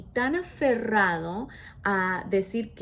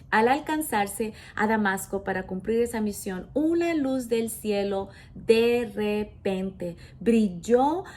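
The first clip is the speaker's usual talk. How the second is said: scripture reading. Acted. Reads verse from the Bible.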